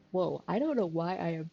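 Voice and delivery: stifling a yawn; words stretched by a yawn. Real, not acted. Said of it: "I'm yawning so much".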